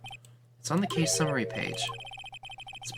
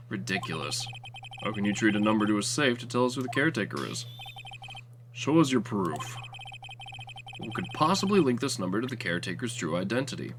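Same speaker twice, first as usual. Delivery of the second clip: lower, cold demanding voice; scornful prosecutor; 6 semitones lower than usual. Acted. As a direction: cut the defence down.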